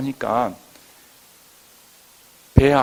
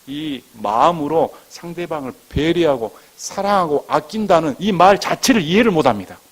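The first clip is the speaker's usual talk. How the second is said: raised, louder pulpit complaint; emphatic preaching; 5 semitones higher, 7 dB louder than usual. Real, not acted. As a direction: hammer home what they fail to grasp. Laments young people's lack of care.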